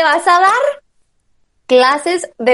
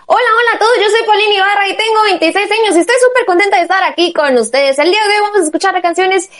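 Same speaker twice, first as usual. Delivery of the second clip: radio DJ on-air intro; 3 semitones higher than usual. Shown as a demonstration. Trainee auditioning for the number one station, animated DJ intro. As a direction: introduce yourself on air, stretching the big names. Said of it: "Así como entrarías al aire tú".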